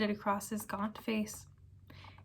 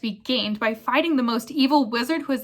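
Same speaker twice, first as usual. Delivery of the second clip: angry retort; 2 semitones higher, 4 dB louder than usual. Acted. Black retorts furiously.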